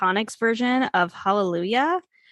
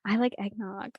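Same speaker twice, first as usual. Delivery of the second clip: sheepish whisper; 7 dB quieter than usual. Real, not acted. Confessing an unpopular choice.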